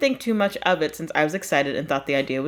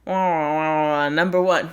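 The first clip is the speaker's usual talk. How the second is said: mock babble; 3 semitones lower than usual. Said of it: "you hear".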